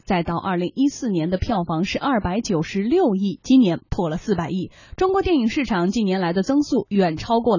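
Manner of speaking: measured news-report delivery; news read. Acted. Radio host reporting box-office growth to listeners, news read.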